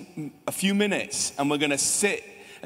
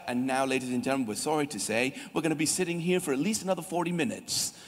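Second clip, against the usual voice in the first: mock announcer; 3 semitones lower, faster than usual. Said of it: "And then it's like".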